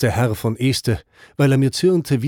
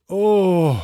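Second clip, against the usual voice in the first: drawn-out choral oh; 6 semitones higher than usual. A narrator's reading. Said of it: "zerbrach ein langes, dumpfes".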